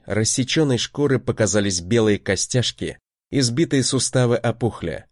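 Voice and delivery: ordinary delivery, nothing marked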